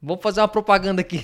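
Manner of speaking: high, loud TV host shouting; João Kleber. Pretend. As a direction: stop everything like a game-show host. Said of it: "Estilo João Kleber".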